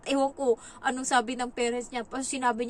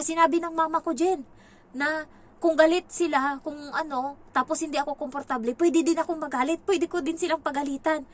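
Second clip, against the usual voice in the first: put-on higher, louder eager kid; excited child quote; 6 semitones higher, 5 dB louder than usual. Nanny quotes the boy repeating his mother's permission, higher and excited. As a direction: tell it like a kid with news. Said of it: "Sabi niya".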